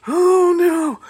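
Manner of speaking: high, loud, hammed-up Oh no; mock alarm. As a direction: squeal it like a fake scare. Mock panic at shaking screen.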